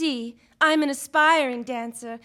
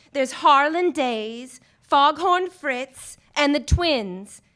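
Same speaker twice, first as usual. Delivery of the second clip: each name drawn out slowly and louder; slow listing; 4 dB louder, slower than usual. Acted. Dancer naming the shady men to the detective, slow deliberate listing. Client slowly lists mafia names.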